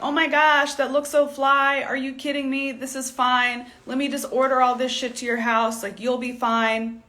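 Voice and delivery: gushing hype. Retold or imitated. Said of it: "gas them up and be like".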